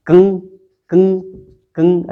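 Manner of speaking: कंग with nasal vibration; nasal demo. Shown as a demonstration. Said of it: "नाक से आवाज़ आ रही".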